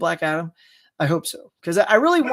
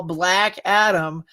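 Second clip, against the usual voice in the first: drawn-out hype; much slower than usual. Real, not acted. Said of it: "look, there it is".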